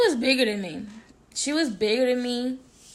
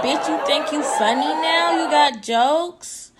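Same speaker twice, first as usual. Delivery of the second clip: higher-pitched retold confrontation, dragged-out ending; mocking challenge; 4 semitones higher, 3 dB louder, slower than usual. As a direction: confront them as the offended rival, drawing out the last words. Acts out the angry rival.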